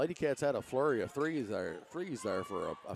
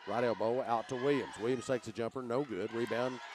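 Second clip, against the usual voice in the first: excited play-by-play. Real, not acted. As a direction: build the call as the scramble heats up. Fast play-by-play, rising excitement.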